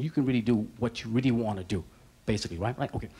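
lightly voiced ventriloquist dummy; low, lips barely moving dummy. Dummy figure voice in act.

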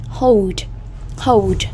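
"hold" with a clear long O; isolated, careful "hold" showing the O sound; O vowel. Shown as a demonstration. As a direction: model "hold" with an oh vowel, falling at the end. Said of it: "âm O".

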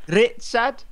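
K nine robot voice. Acted. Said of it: "you sound like K nine".

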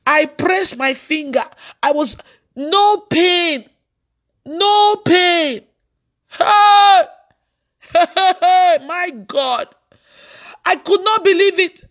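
high, slow exclamations rising into a shout; astonished. Retold or imitated. Preacher telling the congregation of a painless finger, astonished. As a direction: marvel loudly, high and drawn out. Reliving disbelief at feeling no pain.

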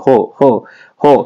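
"হো" held long, each one separate; drawn-out syllable. Shown as a demonstration. Teacher showing why u-kar comes here, drawn-out syllable. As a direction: stretch the vowel of "হো". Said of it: "উচ্চারণটা একটু দীর্ঘ করে পড়া লাগে".

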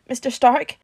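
wobbly. A narrator's reading. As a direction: call out wobbly and unsure. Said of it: "Peter's voice came out wobbly".

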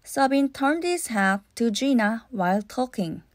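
ordinary delivery

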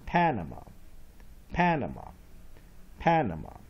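"Panama" with short first A, weak middle, open final ah; syllables joined. Shown as a demonstration. Teacher putting the drilled syllables together, clear falling "Panama". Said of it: "variant A as short vowel O".

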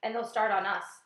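loud, anxious outburst; panicked cry. A narrator's reading. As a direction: fret aloud in mounting panic. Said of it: "cried Miss Spider, wringing her feet".

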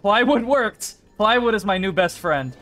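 high, loud victory yell; triumphant shout. Real, not acted. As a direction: celebrate the win at full voice. Triumph after beating the puzzle.

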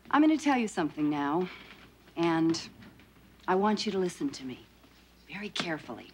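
soft, low, measured warning; quiet threat. Acted. Wife warns Alf never to talk like that, quiet threat. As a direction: keep it low and controlled, a menacing warning.

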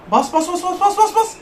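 rapid repeats climbing in pitch; urgent urging. Real, not acted. Gamer urging the player to press, rising urgency. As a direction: urge the player on, rising with each word.

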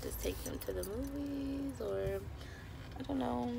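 hoarse, losing her voice; strained hoarse voice; raspy whisper. Real, not acted. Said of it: "Sorry, I'm losing my voice".

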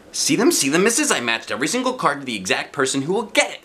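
put-on eager child. A narrator's reading. Eager child showing cards.

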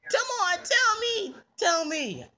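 high, insistent begging; high-pitched, demanding plea; pestering. Acted. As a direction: badger them like an impatient kid. Child pesters for an answer.

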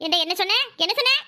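indignant demand, rising sharply on the repeat; offended, escalating question; angry challenge. Acted. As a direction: challenge them, pitch climbing the second time. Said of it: "கோவப்படாதம்மா".

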